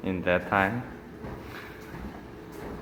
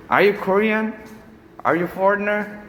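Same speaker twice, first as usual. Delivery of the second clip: higher, baffled questioning voice; puzzled bus driver; 9 semitones higher than usual. Retold or imitated. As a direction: ask it high and bewildered. Bus driver questioning foreign-sounding rider.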